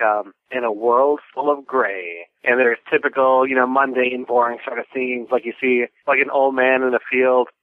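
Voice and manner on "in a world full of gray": trailer voice. Retold or imitated. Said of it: "it says something like".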